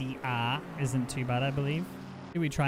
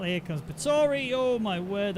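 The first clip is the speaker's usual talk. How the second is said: higher-pitched burst of race excitement; excited commentary; 7 semitones higher, slower than usual. Real, not acted. Race commentator reacting to a close call, excited. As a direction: call the near miss with rising alarm.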